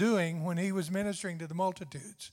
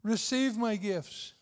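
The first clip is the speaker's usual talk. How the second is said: pleading; 3 semitones higher, slower than usual. Pretend. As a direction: beg them gently to take the gifts. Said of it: "somewhat pleading".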